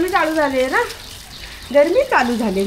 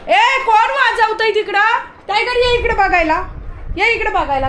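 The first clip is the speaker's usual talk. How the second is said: calling out; 7 semitones higher than usual. Real, not acted. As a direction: call out to someone off in the distance. Calls out at those making noise.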